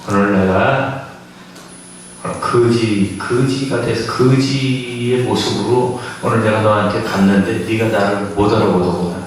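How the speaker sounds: Jesus voice. Retold or imitated. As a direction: speak low and gently, as Jesus revealing himself. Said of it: "그랬더니 예수님이".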